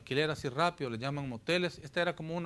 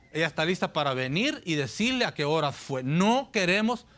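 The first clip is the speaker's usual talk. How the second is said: stern; 3 semitones higher, 5 dB louder than usual. Retold or imitated. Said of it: "un poquito serio los hermanos y un poquito fuertes".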